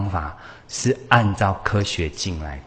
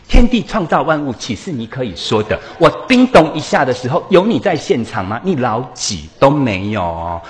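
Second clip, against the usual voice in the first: imagined scolding; 4 semitones higher, 5 dB louder than usual. Retold or imitated. How Jesus could have scolded.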